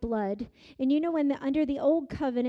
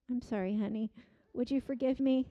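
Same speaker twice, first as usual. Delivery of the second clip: soft apology; 2 semitones lower, 4 dB quieter, faster than usual. Retold or imitated. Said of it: "what do I say, honey?".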